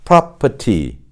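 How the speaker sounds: British "property" as "prah-pah-tee", clear T; British model word "property", crisp T; British pronunciation. Shown as a demonstration. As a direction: say "property" with no R and a true T. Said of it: "그렇다면 영국식은요?".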